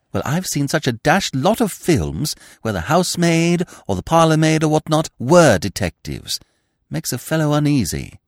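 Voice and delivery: put-on high, fretful young man; worried chap explaining films; Freddy justifying his jitters; nervous young toff.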